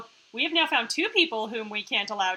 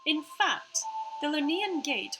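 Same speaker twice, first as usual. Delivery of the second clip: put-on half-Australian AI accent; 3 semitones higher than usual. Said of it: "sorry about her accent right now".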